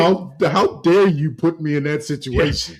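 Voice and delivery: mock outrage. Mock outrage at wife's question.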